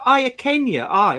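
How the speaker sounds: high, loud mock Doric accent. Mocking a pretentious English student's Doric. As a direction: parody her put-on Doric accent. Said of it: "She said".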